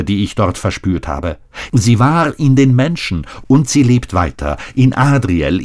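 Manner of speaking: a hint of a heartfelt daughter; earnest young woman. Shaina speaks a long speech.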